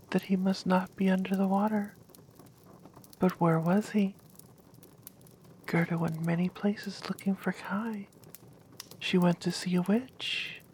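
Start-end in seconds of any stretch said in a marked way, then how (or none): 5.6-8.1 whispered story. Acted.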